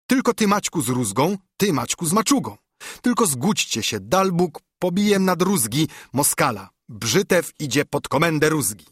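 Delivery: lightly voiced eager little noble; a touch of squeaky eagerness; mildly high excited pleading; Brzytewka. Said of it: "pisnął ręce trąc Bartek Brzytewka".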